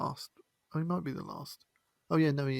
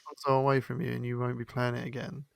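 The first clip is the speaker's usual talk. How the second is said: lightly voiced parent issuing a threat; a hint of a stern parent laying down the law; scolding parent; 6 dB louder than usual. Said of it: "a parent will say".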